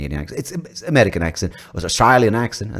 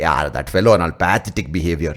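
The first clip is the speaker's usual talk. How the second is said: Indian accent. Shown as a demonstration. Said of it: "a very Indian connotation to it".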